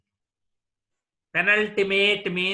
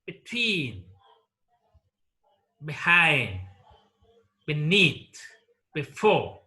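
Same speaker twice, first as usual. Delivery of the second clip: between, behind, beneath, before, each punched on its second syllable; second-syllable stress; slower than usual. Shown as a demonstration. Teacher listing two-syllable prepositions, stress on second syllable. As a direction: stress the end: be-TWEEN, be-HIND, be-NEATH, be-FORE. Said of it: "take the stress on the second syllable".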